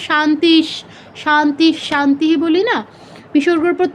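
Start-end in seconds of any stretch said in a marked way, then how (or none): 0.1-1.7 শান্তিশ ending in a palatal "sh"; visarga as sh. Shown as a demonstration. Teacher quoting the peace mantra, শান্তিশ ending in sh. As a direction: close each শান্তিশ on sh, no vowel. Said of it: "শান্তি মন্ত্রের শেষে আমরা".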